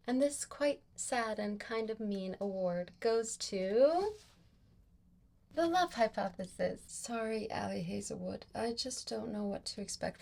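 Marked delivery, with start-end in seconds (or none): 0.1-6.8 mock award announcement. Vlogger names first book to read, mock announcer. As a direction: draw out the lead-in like an award presenter.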